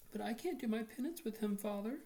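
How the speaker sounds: high, outraged protest to the priest; indignant girl. A narrator's reading. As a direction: plead in outrage, voice up. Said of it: "Nora cried".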